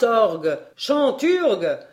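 very loud, wildly swinging conductor's cries; ecstatic shouting. A narrator's reading. Professor pumping the imaginary bellows, ecstatic shouting. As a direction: conduct the imaginary organ in frenzy. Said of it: "en me criant".

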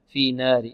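في نار with fronted long a; wrong imala. Shown as a demonstration. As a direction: bend the vowel of نار toward "ner". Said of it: "تقليل أو إمالة".

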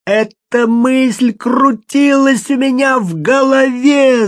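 yelling. A narrator's reading. Тоби в отчаянии орёт, поняв свою ошибку. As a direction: shout it, striking your forehead. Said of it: "заорал он".

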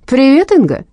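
a hint of a creaky lifeless caller; lightly voiced sexless killer greeting her. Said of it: "Голос был скрипучий, какой-то неживой, бесполый". (слегка скрипучий неживой голос убийцы)

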